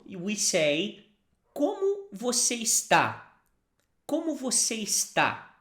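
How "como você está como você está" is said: Como você está said slowly and clearly for repeating; slow model phrase. Shown as a demonstration.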